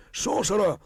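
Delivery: high, loud mob shouting; frightened villagers screaming at the wolf boy. Acted. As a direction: hurl it like an angry crowd. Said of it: "The villagers shouted".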